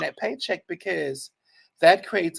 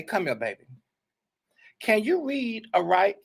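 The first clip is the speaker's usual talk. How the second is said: mock sweet talk; 2 semitones higher than usual.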